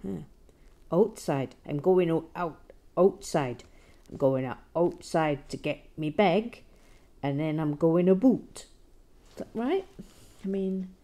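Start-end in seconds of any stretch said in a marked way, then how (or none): 0.9-8.6 a louder, hammed-up Canadian accent, "a boot" for "about"; bad Canadian accent. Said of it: "my very bad Canadian accent now".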